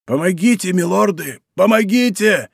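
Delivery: pleading, rising cry from the water; plaintive cry for help. A narrator's reading. Drowning man calls to the musketeers, plaintive cry. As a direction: beg the lords desperately for help. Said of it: "закричал кто-то жалобным голосом".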